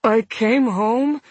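put-on slow, hurting man with blurred Brooklyn accent; pained, blurred Brooklyn. A narrator's reading. Injured man explaining through tissues, pained and blurred. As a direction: push slurred Brooklyn words out through pain. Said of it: "he said painfully, his Brooklyn accent blurred".

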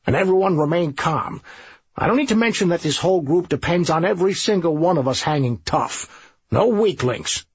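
rally the men, firm and quick; drill sergeant. Acted. Narrator voices the sergeant.

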